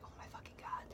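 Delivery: whispered, under-the-breath dismay; appalled whisper. Retold or imitated. Enduring the tow truck driver's singing, appalled whisper. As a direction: mouth it almost silently, appalled. Retelling driver starting to sing.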